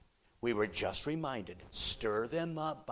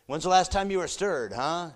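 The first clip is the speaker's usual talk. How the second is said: 1 loud challenge; 6 semitones higher, 8 dB louder than usual. Real, not acted. Preacher challenging the congregation.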